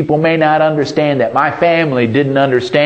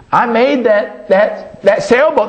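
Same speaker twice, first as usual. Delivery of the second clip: put-on excited boy; 9 semitones higher than usual. A narrator's reading. Boy recognizes his lost boat.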